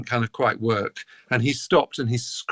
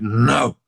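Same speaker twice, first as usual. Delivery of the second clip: emphatic, weighty "No"; 4 dB louder than usual. Retold or imitated. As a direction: imitate a flat-out refusal with full stress on "No". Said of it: "very emphatically".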